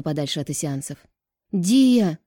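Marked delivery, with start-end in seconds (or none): 1.5-2.2 higher, louder alarmed call; frightened cry. A narrator's reading. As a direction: call after her in fright. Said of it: "воскликнул испуганно Биас".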